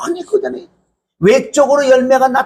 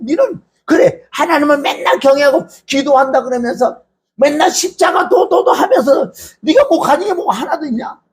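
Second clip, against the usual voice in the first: mocking taunt. 설교자가 한나를 비웃는 브닌나를 흉내 내며, 조롱하듯. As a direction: jeer at her like a smug rival. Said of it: "요렇게 조롱한다고".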